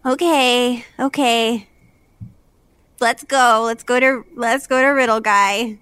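resigned okay. Acted. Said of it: "just sighs and says".

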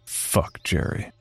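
slow, whispered curse under the breath; muttered thought. Retold or imitated. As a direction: whisper it to yourself. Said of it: "To myself, I thought".

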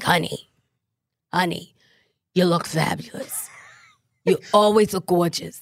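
a hint of a New York designer; Patricia Field. Guest imitates Patricia Field complimenting someone, lightly. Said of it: "and she always talks like this".

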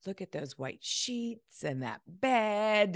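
mock swoon over the hotel bed; imitating a delighted client. Client marvels at a tidy hotel room, slow delighted gush.

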